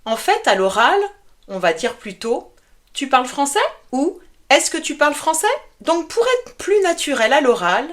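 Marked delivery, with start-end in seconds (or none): 2.9-3.6 "Tu parles français?" with the voice rising on "français"; rising question tune. Shown as a demonstration. Teacher models a casual question to learners, rising at the end. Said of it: "tu penses à monter le ton à la fin". 4.5-5.4 "Est-ce que tu parles français?" rising at the end; rising question tune. Shown as a demonstration. Teacher models a question for students, pitch rising on "français". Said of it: "tu penses à monter le ton à la fin".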